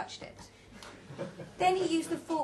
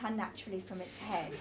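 words break into a real chuckle; amused, can't keep the laugh out; laughing while reading; 4 semitones lower, 5 dB quieter than usual. Real, not acted. Narrator amused by bulging fish eyes.

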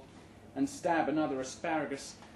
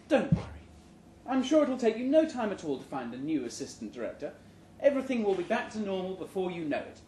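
reassuring wife; 3 semitones higher, faster than usual. Acted. Wife reassuring her husband.

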